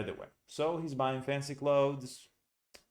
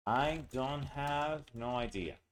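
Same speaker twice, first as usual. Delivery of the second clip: African American English; 3 semitones higher, slower than usual. Shown as a demonstration. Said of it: "that's African American".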